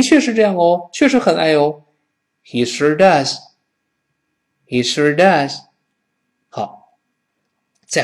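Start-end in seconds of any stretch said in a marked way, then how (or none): 2.4-5.6 does stressed with a swelling fall. Shown as a demonstration. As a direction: give does the weight of the sentence. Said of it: "does 也要重读哦". (重读 does)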